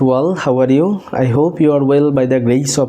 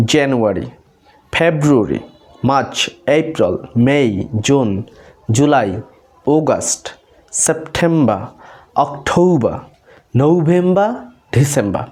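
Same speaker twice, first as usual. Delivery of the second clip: months listed with a pause after each; measured drill of the month names; practice recital; 2 semitones lower than usual. Shown as a demonstration. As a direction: recite one by one, each name falling. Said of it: "এইভাবে practice করতে পারেন".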